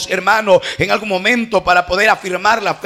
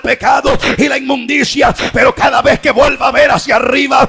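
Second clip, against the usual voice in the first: full-force preaching; 2 semitones higher than usual. Real, not acted. Preacher on the healing serpent and cross, fervently building to a shout. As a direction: drive each phrase harder, then stretch the last cry.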